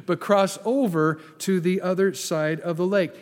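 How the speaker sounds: "over" weighted, then an even finish; stress on OVER. Shown as a demonstration. Preacher correcting 'go under' for the congregation, stressing "over". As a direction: contrast "over" firmly with "under". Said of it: "not go under".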